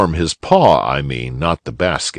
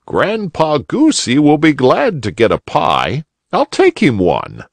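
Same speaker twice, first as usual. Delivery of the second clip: cheerful, lightly higher bunny uncle; eager old gentleman; old rabbit gentleman; 9 semitones higher than usual. A narrator's reading. Uncle Wiggily voice.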